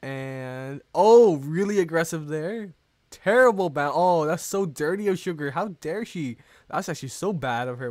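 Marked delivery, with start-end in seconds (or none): 0.9-6.0 excited outburst. Real, not acted. Outburst at opponent's shot.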